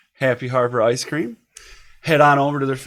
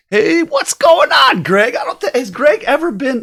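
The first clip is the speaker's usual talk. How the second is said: excited greeting; 9 semitones higher, 4 dB louder than usual. Real, not acted. Host greets guest Greg.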